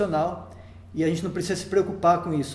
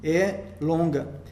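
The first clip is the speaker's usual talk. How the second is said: drawn-out long syllable; much slower than usual. Shown as a demonstration. Teacher showing a long syllable to students, slowly drawn out. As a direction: stretch é longa out slowly to show length. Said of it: "a sílaba Ram é longa".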